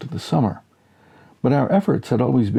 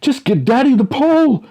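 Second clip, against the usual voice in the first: desperate plea; 6 dB louder than usual. Acted. Dad pleading, balancing.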